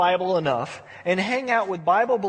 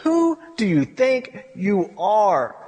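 very slow, word-by-word rebuke; attitude; slower than usual. Acted. God puts Job in his place, with slow, emphatic attitude. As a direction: draw out each word as a weighty challenge. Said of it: "You could almost hear the attitude".

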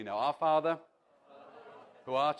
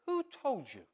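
tender question; 8 semitones higher than usual. Shown as a demonstration. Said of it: "hear the heart and the voice".

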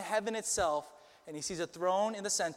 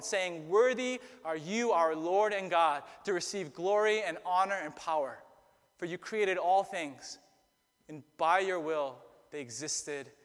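scripture reading. Acted. Public scripture reading before sermon.

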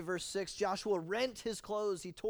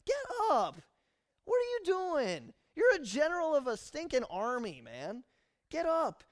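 stern rebuke; 8 semitones higher, 7 dB louder than usual. Acted. God rebuking Joshua, loud stern command. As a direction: chew out a soldier.

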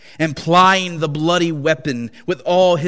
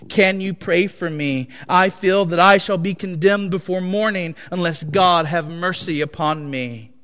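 higher, louder, urgent begging; desperate plea; 4 semitones higher, 4 dB louder than usual. Acted. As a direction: plead as if damned by morning. Master begs slave for prayer.

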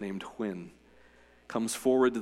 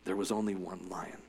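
lion's voice; 5 semitones lower, 8 dB quieter than usual. A narrator's reading. Aslan's voice reading Narnia.

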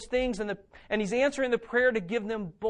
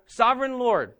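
proclaimed; 4 semitones higher, 6 dB louder than usual. Acted. End of the prayer proclaimed.

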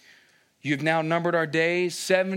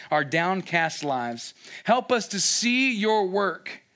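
Moses pleading. Retold or imitated. Moses asking God for mercy, earnest plea. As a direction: plead for one more day. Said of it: "He's asking".

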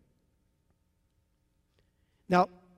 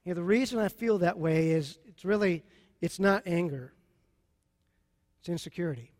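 quiet self-admission; 4 semitones lower, 4 dB quieter than usual. Shown as a demonstration. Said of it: "you need to say to yourself".

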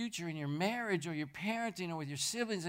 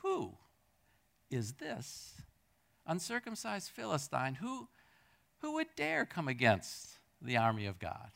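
softer, wondering question; David, puzzled at the giant, asking softly; inquisitive; 5 dB quieter than usual. Retold or imitated. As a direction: ask it like you truly wonder who he is. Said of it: "I'm not sure if he said it inquisitively".

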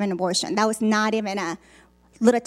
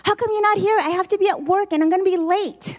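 retold angry husband; 8 semitones higher, faster than usual. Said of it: "and he was mad".

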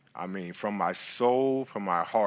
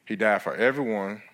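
scripture reading. Acted. Reads scripture aloud.

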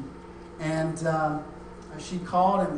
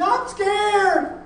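put-on high, loud little-girl wail; child's scared cry; 10 dB louder than usual. Scared little girl answering her sleepy dad, frightened cry. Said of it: "she woke up screaming".

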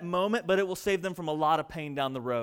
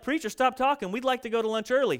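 higher, hurried mock complaint; impatient churchgoer; 5 semitones higher than usual. Churchgoer tells the preacher to finish, mock impatient. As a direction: rush it like you're hungry.

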